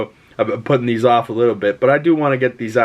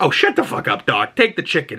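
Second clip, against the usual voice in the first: higher, lightly put-on mock bossy voice; pushy driver; 4 semitones higher than usual. Driver tells Doc to shut up and take chicken, mock bossy. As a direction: brush off the fancy guy, mock gruff. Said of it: "And he's like".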